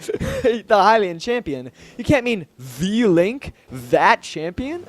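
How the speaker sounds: lightly voiced incredulous prince, drawn out; slow, questioning put-on princely voice; Sidon. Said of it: "that's, that's, that's Sidon".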